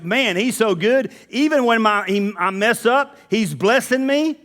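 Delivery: amazed at undeserved blessing; a touch of wide-eyed wonder; grateful awe. Retold or imitated. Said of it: "It should take you into places".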